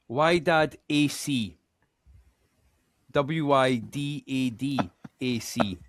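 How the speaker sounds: slow, spelling Wydad A C letter by letter; careful spelling out. Real, not acted. Quiz host spelling out the club name, slowly. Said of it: "I so love the pronunciation".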